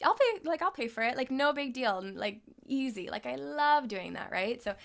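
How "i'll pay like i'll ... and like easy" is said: higher, bright-voiced offer to pay; breezy generous offer. Speaker offering to pay for her saving friend, breezy. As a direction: toss off paying the bill. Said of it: "And I'm just like".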